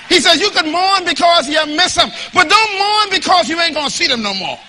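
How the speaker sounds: loud, high preaching cry; preached shout. Shown as a demonstration. Preacher shouting the scripture to the church, loud and high. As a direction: belt the line out to the congregation. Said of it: "I'm gonna say it in the middle here".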